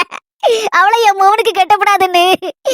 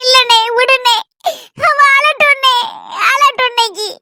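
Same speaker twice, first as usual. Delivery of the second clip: crying out; 4 semitones higher than usual. Acted. Brother crying out to his sister to let him weep today. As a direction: let it burst out through sobs.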